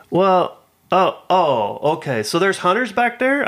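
high, fussy older lady, hammed-up; mock lady voice. Imitating the confused lady asking about hunters, high and fussy. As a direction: lift the pitch and play her flustered. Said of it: "she's like".

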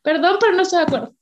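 rattled off fast with a sorry; quick apologetic disagreement. Shown as a demonstration. Woman models the polite disagreeing phrase, quick apologetic. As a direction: rush the apology then disagree. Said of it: "gran ejemplo".

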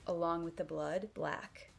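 usual speaking voice

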